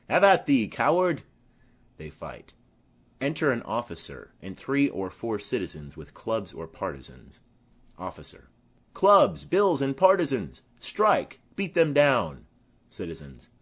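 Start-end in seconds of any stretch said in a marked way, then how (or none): 0.1-1.2 loud, scornful cry as he attacks; taunting challenge. Acted. Tybalt attacking Benvolio. 8.9-12.5 louder battle orders to the crowd; rallying shout. Acted. Officer calling citizens to fight.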